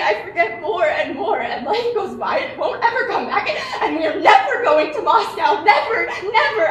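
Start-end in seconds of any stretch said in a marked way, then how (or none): 3.5-6.7 despairing cry. Acted. Despair over never reaching Moscow.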